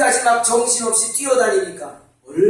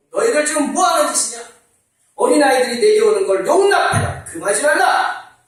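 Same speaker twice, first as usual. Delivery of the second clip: louder, higher stern rebuke; shouted rebuke; 4 semitones higher, 5 dB louder than usual. Acted. Jesus rebuking his disciples, loud stern shout. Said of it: "그리고 소리쳤어요".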